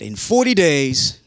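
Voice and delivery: imitating a blunt street prophet; mock proclamation. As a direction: deliver a doom warning to a crowd, acted. Jonah proclaims doom to the crowd.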